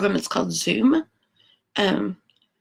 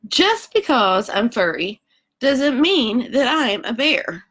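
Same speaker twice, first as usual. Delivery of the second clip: slow, emphatic koala, a bit louder; indignant koala; 4 semitones higher, 4 dB louder, slower than usual. Acted. Koala protesting to the reader, slow and emphatic. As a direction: insist slowly that he's no bear.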